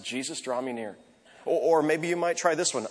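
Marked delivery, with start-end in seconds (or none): 0.0-1.0 quiet breath prayer. Shown as a demonstration. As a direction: breathe it out in the traffic. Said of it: "You don't have to close your eyes".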